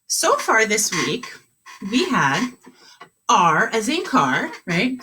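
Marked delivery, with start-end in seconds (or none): 3.3-4.5 slow, clear teaching voice; slow modeling. Shown as a demonstration. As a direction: spell it out slowly. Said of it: "Say it with me".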